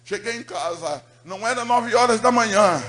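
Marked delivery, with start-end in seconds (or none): 1.2-2.8 preached loud. Acted. Preacher retells the moment, loud.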